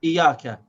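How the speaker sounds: IYAKA with a short i and single light y; unconnected ya. Shown as a demonstration. Teacher showing what one cannot say, shad left out. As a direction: say IYAKA quickly, no doubled y. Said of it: "So I cannot say iyaka".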